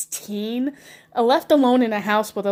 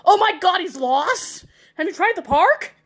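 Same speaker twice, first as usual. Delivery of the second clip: higher, faux-worried gasp; mock alarm; 8 semitones higher than usual. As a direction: pretend to panic about a lost dog. Mock alarm, pretending Jesus is lost.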